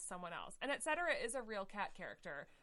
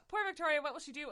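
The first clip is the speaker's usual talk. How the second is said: higher, louder mock-sorrowful wail; hammed-up sorrow; 7 semitones higher, 7 dB louder, faster than usual. Reading fan fiction aloud, hamming Electra's sorrow. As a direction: overplay the pity for poor Victoria. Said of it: "Electra shook her head, head sorrowfully".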